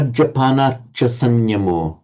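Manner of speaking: "Majjapana cha sanyamo" with a very short "cha". Shown as a demonstration. Teacher modelling the line, "cha" kept very short. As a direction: keep the vowel of "cha" brief. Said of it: "remember to make it very short".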